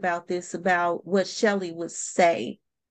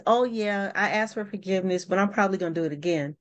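careless excuse; faster than usual. Retold or imitated. Mocking a careless apology.

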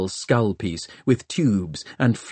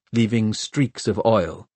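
ordinary delivery

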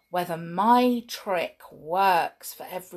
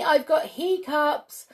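put-on child voice; 8 semitones higher than usual. Story child's line.

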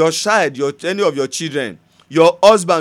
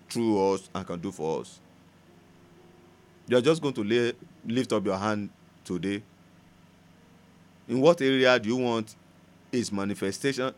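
prayerful ministration; 3 semitones lower than usual. Acted. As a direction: draw them gently into prayer. Leads congregation into prayer.

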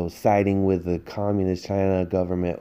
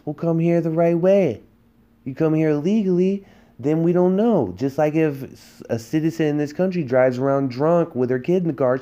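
higher and louder, heated indignation; angry rant; 6 semitones higher, 3 dB louder than usual. Real, not acted. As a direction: hammer it home like you're fed up. Angry rant about immigration law.

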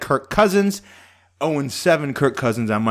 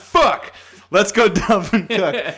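retold curse; 5 semitones higher, slower than usual. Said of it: "And I'm like".

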